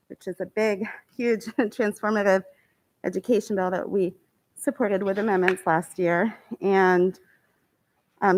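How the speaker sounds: talking while catching breath; a little winded from running. Real, not acted. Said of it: "sorry, I'm a little out of breath".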